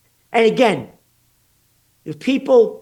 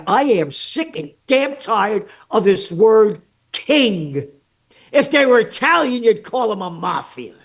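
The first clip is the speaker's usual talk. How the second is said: angry rant; 3 semitones higher than usual. Real, not acted. Ranting about kings.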